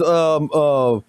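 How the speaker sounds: usual speaking voice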